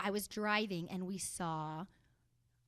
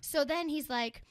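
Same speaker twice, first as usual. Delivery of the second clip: normal talking voice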